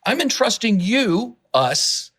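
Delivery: earnest and worked up; charged up. Real, not acted. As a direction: speak with eager conviction. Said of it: "I get so charged about this".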